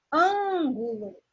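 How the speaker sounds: Ângulo with a long, strong first syllable; slow down and hold the ÂN of Ângulo; stress on ÂN. Shown as a demonstration. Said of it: "an é a sílaba mais forte". (Ângulo devagar, com ÂN forte e alongado)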